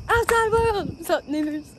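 loud, very high holler; excited calling out. Pretend. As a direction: shout a giddy greeting to the street. Calling out to the outdoors.

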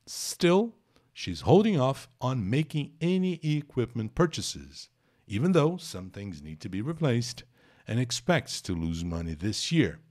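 slow, careful English reading; reading aloud. Acted. Teacher keeps reading the article slowly to students. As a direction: read the next lines out slowly.

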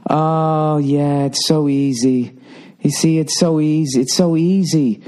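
smug mom impression. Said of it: "she just goes".

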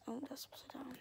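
whispering. Real, not acted. Whispering in bed.

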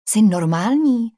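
mildly irked, drawn-out question; a touch of exasperation, slow and voiced; understated angry disbelief, stretched out; angry hiss. A narrator's reading. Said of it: "sykla jsem vztekle".

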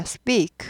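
short falling speak, sp pressed hard; tense-p speak. Shown as a demonstration. Teacher modelling the tense sound, tense-p speak. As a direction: speak with a tight p and no air. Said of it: "된 소리가 되죠".

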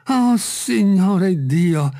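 high, very drawn-out cry; startled exclamation. A narrator's reading. Servant finding something on the tree, startled cry. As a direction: stretch it out in shock.

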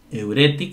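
"eureti" stressed on the next-to-last syllable; stress on penultimate syllable. Shown as a demonstration. Teacher reading the Greek word eureti, penultimate syllable stressed. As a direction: say "eureti" with the accent on RE. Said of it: "con acento en la penúltima".

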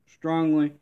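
"Strongly" barked out high; loud emphasis. Real, not acted. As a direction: punch "Strongly" hard. Repeats in anger.

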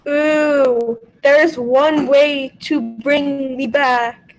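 slow ghostly statue voice. Acted. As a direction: moan it slowly like a ghost. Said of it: "a ghostly voice emanated from the statue".

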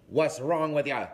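suspicious mum. Retold or imitated. Mum confronting her son as he walks in, loud Belfast demand. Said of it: "she's like".

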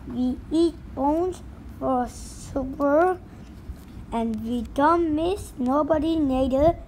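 gruff pirate scolding the crew; pirate telling kids to stop crying; pirate captain voice. Acted. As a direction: bark it like a tough sea captain.

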